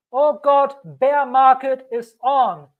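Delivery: high, panicky mock wail. Crypto YouTuber mimics panicking holders, mock fear. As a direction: play a scared seller mid-crash. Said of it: "When it feels like".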